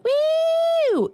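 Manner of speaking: high, piercing woo; concert scream. Retold or imitated. Fan at a band's concert, screaming woo. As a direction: let out a wild fan scream. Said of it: "that night when I was like".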